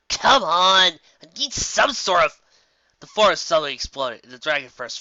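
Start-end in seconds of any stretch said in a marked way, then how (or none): 0.1-2.4 urgent. Acted. Pilot urging herself on.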